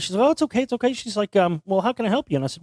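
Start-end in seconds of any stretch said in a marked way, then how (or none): 0.3-0.9 high, kindly imitated reassurance; imitating a nice lady soothing a caller; really nice. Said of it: "she's really nice". 1.6-2.4 higher, lightly imitated helpful lady; friendly retold phone manner; really nice. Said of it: "she's really nice".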